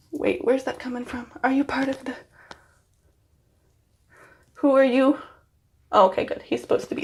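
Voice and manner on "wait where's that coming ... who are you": hushed curiosity at a stray strand; puzzled whisper. Real, not acted. Finding a strand behind her ear, whispering. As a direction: whisper the question. Talking to a hair piece.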